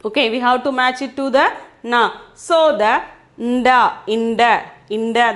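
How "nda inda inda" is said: "inda" with the n run into the d; nasal consonant blend. Shown as a demonstration. Teacher shows the bindu sound, "inda" with n blended into d. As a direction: join n and d in "nda, inda". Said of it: "the pronunciation will be like that".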